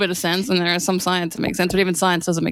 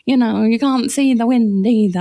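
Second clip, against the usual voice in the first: mock preachy; 3 semitones higher, 4 dB louder, slower than usual. Comedian mimicking believers who told her you can't see God, mock preachy. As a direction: draw it out like a pious lecturer, hammed up.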